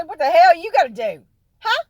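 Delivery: high, loud playful yell; mock yell. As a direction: dare him, all bluster. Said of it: "I said".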